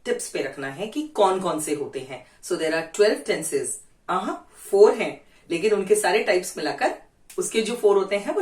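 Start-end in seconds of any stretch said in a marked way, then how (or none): 2.4-3.7 slow and clear. Shown as a demonstration. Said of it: "teacher stating the count slowly".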